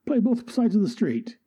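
whispered aside in character; secretive whisper. Acted. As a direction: breathe it out conspiratorially. Confiding a secret.

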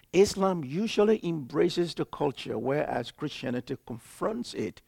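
slowly. Shown as a demonstration. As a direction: spell it out word by word. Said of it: "now let me say this slowly".

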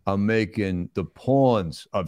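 deliberate movie tough guy explaining himself; plodding, self-satisfied star impression; Sylvester Stallone. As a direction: play a slow-talking action star.

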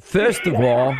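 New York accent take on Linda; lightly put-on New York accent; imitating Linda. Shown as a demonstration. Host shows caller how to do Linda's New York accent. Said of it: "if you're gonna do Linda, you gotta do it right".

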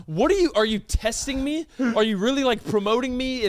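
acted disbelief. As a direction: play someone suspecting it is all a test. Acted disbelief at being terminated.

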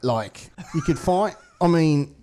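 hammed-up casual police announcement; laid-back police appeal. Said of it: "they're very open and vulnerable".

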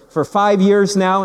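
drawn-out mock Newfoundland accent; imitated Newfoundland accent. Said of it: "that's a rich accent".

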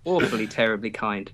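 lightly voiced posh English thanks; posh English accent. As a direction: quietly ham up posh English manners. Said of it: "We don't actually speak like that".

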